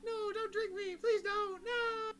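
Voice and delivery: high-pitched begging creature; crying blue orb. Acted. Orb begging not to be drunk, high wailing plea. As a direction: plead shrilly, far above your own voice. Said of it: "it's definitely like".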